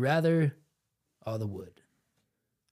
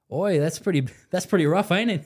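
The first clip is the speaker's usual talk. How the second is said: put-on failed British accent sounding Australian; higher-pitched mock British, slipping into Australian; bad British accent; 4 semitones higher than usual. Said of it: "Okay, well, that's Australian".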